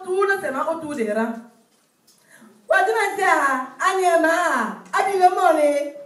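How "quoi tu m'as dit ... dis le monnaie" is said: put-on gossiping girlfriend.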